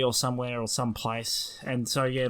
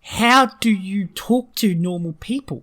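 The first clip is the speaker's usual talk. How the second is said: mock exasperation; 6 semitones higher than usual. Passenger baffled by an unintelligible stranger, mock exasperated.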